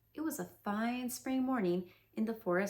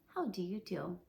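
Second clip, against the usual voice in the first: gloomy greeting; 3 semitones lower, 3 dB quieter than usual. Acted. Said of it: "in a gloomy manner to him".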